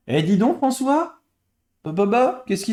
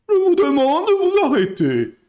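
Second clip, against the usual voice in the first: higher, louder mock politician's plea; bad Balladur impression; 9 semitones higher, 4 dB louder than usual. Streamer retelling Balladur hushing the booing crowd. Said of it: "Très mauvaise imitation".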